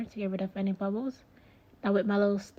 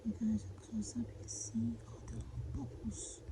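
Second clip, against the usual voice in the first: whispering; 9 dB quieter than usual. Real, not acted. Close-up of bubbles.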